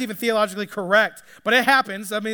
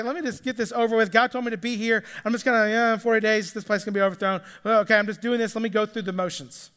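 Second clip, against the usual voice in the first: bored, going through the motions; much faster than usual. Retold or imitated. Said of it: "He's just like".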